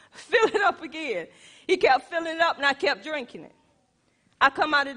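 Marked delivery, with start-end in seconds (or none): 0.1-1.3 laughing through the request. Retold or imitated. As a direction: chuckle while asking again. Husband told to refill water.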